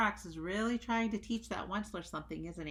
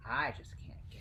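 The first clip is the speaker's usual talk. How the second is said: whispering; 5 semitones lower than usual. A narrator's reading. Whispered ending.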